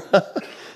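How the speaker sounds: short high chuckle; amused laugh. Real, not acted. Preacher laughing at his own joke, amused.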